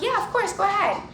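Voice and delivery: high, easy, obliging reply; friendly go-ahead. Retold or imitated. Owner letting a stranger pet her dog, friendly. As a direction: imitate a chirpy, welcoming yes.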